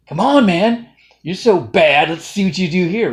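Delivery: loud, high goading shout; tough taskmaster challenge. Acted. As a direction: egg him on at full volume. Voices Jocko tasking Goggins.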